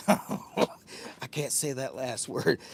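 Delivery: slow words broken by laughter; laughing. Real, not acted. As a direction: laugh your way through the line.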